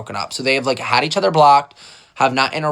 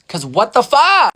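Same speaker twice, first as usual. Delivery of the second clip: exasperated; 8 semitones higher, 6 dB louder, slower than usual. Real, not acted. Exasperated wrap-up.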